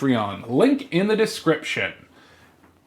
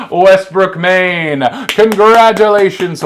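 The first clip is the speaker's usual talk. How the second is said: excited announcement; 6 dB louder, slower than usual. Acted. Announcing the big winner.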